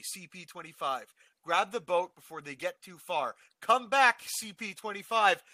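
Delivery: radio dispatcher building from calm to shouting, slowing at the end; urgent radio call. Retold or imitated. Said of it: "the last bit of audio can be heard".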